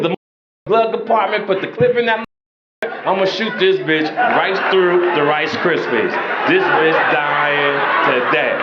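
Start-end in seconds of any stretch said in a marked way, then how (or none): 2.8-8.5 slow drawn-out mock threat; mock menace. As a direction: lean into a slow joking threat.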